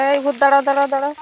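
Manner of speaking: loud, urgent shout to halt someone; calling out. Acted. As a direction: call sharply after a fleeing ghost. Calling after a fleeing ghost. (জোরে ডেকে থামানো)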